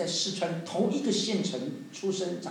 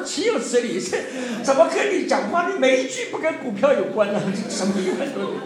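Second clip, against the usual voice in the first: indignant scolding; 4 semitones higher, 4 dB louder than usual. Retold or imitated. Wife scolds stock-obsessed husband.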